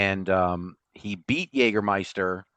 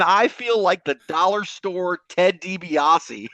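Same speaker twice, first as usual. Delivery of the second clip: higher, slow West Virginia hillbilly voice; a hammed-up West Virginia accent, slow and raised; mock hillbilly drawl; 7 semitones higher, slower than usual. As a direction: ham up a West Virginia hillbilly prancing in a shawl.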